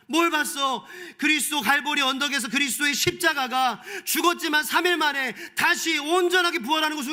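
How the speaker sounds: a rising sermon climax; fervent preaching. Acted. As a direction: preach it with full conviction. Passionate preaching about Caesar.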